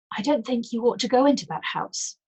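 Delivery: a touch of anxious warning. Acted. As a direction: warn her nervously. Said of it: "she told her anxiously".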